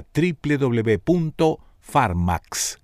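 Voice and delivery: slow, careful reading of triple W punto farmax; slow dictation of the web address. Shown as a demonstration. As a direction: spell the web address out slowly. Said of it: "repeated address".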